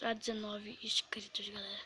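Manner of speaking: whispered, unvoiced aside; whispering. Real, not acted. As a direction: breathe it out in a whisper. Repeating subscriber goal.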